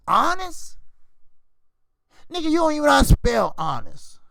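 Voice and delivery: incredulous scorn. Real, not acted. Mocking incredulous rant.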